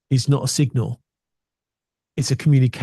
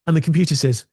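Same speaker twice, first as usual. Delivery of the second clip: usual speaking voice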